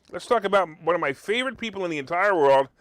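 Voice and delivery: dry mock praise; sarcastic. Host introducing a hated doctor, sarcastically. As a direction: say it sweetly but mean the opposite. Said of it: "Can you hear the sarcasm?".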